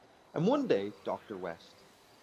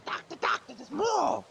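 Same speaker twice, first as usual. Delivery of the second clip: very high, slow, mournful moth; sad moth voice; 5 dB louder, slower than usual. Acted. Moth complaining to the foot doctor, very high and mournful. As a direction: wail like a heartbroken moth. Moth character in told joke.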